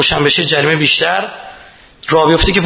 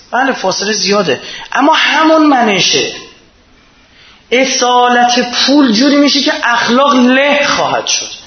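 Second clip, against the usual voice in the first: fiery preaching; 8 semitones higher than usual. Acted. Preacher condemning greed to the congregation, fiery and raised. Preacher rising to full force.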